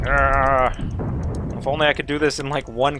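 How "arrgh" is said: mock angry growl. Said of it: "You can't see how angry I am".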